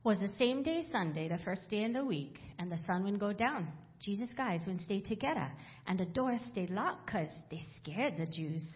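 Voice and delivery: Bible read aloud in Hawaiian Pidgin. Acted. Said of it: "read it from the Pidgin Bible".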